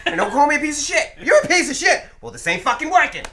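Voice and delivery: hammed-up Irish heel; mock angry wrestler. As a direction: heckle your boss like a heel wrestler. Acted wrestler feud, Irish persona.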